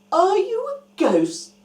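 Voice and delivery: high, loud startled question; scared question. Acted. Disciples seeing Jesus appear, high startled fright. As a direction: blurt it out in fright. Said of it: "a little bit scared".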